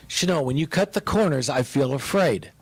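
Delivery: calm, level voice saying Shano, when you cut the corners; calm and gentle. Retold or imitated. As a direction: say it calmly with no blame in it. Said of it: "Deborah said, ... like she said it".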